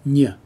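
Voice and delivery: ny as a single "nyuh" syllable; ny sound. Shown as a demonstration. Teacher showing the N H combination, ny sound. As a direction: say ny as n gliding into y. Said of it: "pronounced like N Y".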